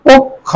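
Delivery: পক্ষ as "pok... kho", rounded o; careful model pronunciation. Shown as a demonstration. Teacher sums up the spelling, saying পক্ষ as "pok-kho". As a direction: split পক্ষ on the doubled k. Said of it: "উচ্চারণ করি পক্ষ".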